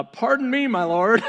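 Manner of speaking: loud, high, mock-polite challenge; incredulous Gideon. Gideon objecting to God's plan, mock-incredulous. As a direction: question the Lord with exaggerated politeness. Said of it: "I could just see it again".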